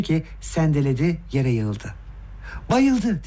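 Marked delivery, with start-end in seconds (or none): 2.7-3.2 high-pitched cry of alarm; shouted alarm. A narrator's reading. Everyone sees Gavrila collapse, shouting. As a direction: call it out high to the room. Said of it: "diye bağırmaya başladı herkes".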